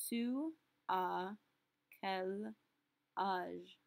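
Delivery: "as" said as a plain open ah with no final s. Shown as a demonstration. Teacher showing students the silent s in "as". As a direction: drop the s of "as", just ah. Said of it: "our A S is still pronounced ah".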